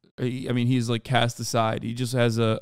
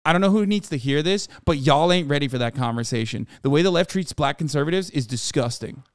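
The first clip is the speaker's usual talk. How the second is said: quoting the tweet in a put-on black voice; lightly voiced African American accent. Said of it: "I read this in his black voice".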